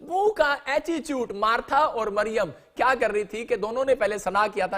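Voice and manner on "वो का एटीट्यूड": laughing. Real, not acted. Laughing at the mimicked attitude.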